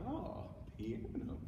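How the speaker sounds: slow, breathed near-whisper; piano, hushed. Acted. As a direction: drop to a soft, drawn-out hush. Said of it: "the piano will be like".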